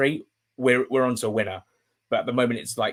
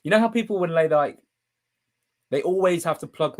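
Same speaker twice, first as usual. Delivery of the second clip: choked up; 5 semitones higher than usual. Real, not acted. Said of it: "I'm getting really emotional".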